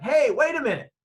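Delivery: mock officer's call, high and loud; authoritative officer. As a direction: call out like a cop halting someone. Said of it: "they sound strong and deep and authoritative".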